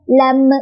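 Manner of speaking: "lam" with a little vowel popped after the m; wrong bounced m. Shown as a demonstration. Teacher repeats the mistake to avoid, bounced "lam".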